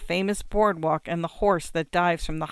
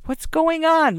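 much higher, louder plea; begging; 10 semitones higher, 6 dB louder than usual. A narrator's reading. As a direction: beg the son to explain. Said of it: "my mother begs me".

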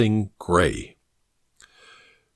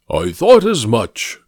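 pompous senator oratory; 4 dB louder than usual. Acted. Mycroft voiced.

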